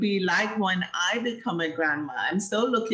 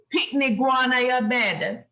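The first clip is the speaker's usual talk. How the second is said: Jamaican Patois. Shown as a demonstration. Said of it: "In Jamaica, we say".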